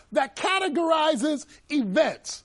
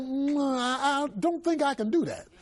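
hesitant refusal; 4 dB quieter than usual. Retold or imitated. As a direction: reenact politely backing out, haltingly. Declining a co-workers' scam.

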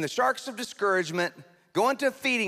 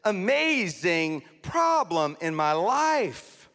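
fake cheerful prayer; 4 semitones higher than usual. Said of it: "suppress their feelings".

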